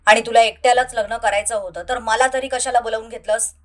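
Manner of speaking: worried friend. Acted.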